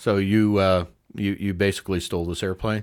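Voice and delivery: low, flat, droning monotone. Describing a movie trailer, imitating the monotone flight controller. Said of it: "the flight controller who is just so monotone".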